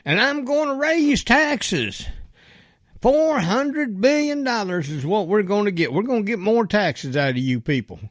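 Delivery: high, sneering parody of Biden; mocking Biden. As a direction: mimic his campaign ad mockingly. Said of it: "I think that was your commercial".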